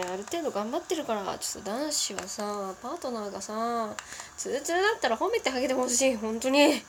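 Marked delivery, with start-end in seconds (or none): 4.4-6.8 half-snapping. Real, not acted. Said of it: "切れ気味".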